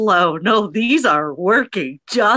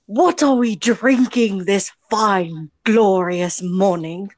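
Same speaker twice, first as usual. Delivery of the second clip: posh British host; slower than usual. Pretend. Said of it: "jacked Caffeinated or Die from Antoine".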